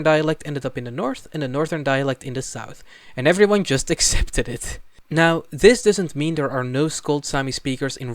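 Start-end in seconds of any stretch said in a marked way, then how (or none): 3.2-4.8 laughing. Real, not acted. Laughing at the dialect mix-up.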